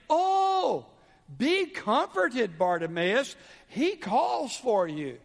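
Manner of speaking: a hint of syrupy, mock-comforting crowd; lightly hammed-up fake kindness; fake sweet crowd. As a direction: coo it like a two-faced crowd. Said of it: "the crowd changes their voice".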